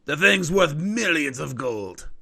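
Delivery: slow, drawn-out tale of riches; informant selling a legend. Acted. Informant telling adventurers of the great sapphire, grandly slow. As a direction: savor each boast as a rumour-seller. Game master voices the informant.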